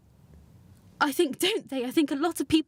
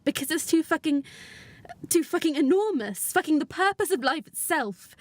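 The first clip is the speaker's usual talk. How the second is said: higher-pitched, swearing in exasperation; overwhelmed, pitch climbing on each phrase; overwhelmed outburst; 4 semitones higher than usual. Acted. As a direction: let the enormity push the voice up. Overwhelmed outburst at parenthood's enormity.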